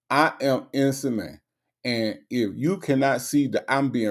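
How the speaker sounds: halting, word-by-word imitation of the man; mimicking his talk. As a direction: plead your innocence in stilted, measured phrases. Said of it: "that's how you talk".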